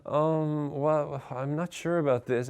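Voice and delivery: anxious self-talk. Shown as a demonstration. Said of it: "with a really annoying, anxious tone of voice".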